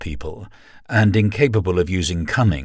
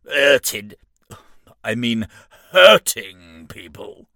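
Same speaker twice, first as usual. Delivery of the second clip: emphatic; 6 dB louder, slower than usual. Acted. Demon argues with the imp.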